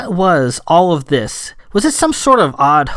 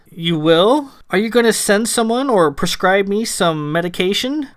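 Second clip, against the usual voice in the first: higher-pitched, baffled questioning; quite confused; 6 semitones higher than usual. A narrator's reading. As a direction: ask in confusion, voice lifted. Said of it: "Sam was quite confused".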